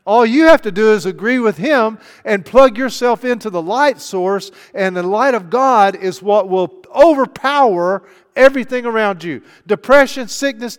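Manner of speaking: preaching at full force. Acted. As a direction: pound it out like a revival preacher.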